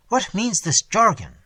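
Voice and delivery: a prince caught off guard, voice jumping up in awe; astonished. A narrator's reading. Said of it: "in visible astonishment and secret awe".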